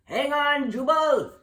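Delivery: urgent and worried; anxious call. Acted. Gertie calling to Jubal from the boat, anxious. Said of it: "an anxious voice called".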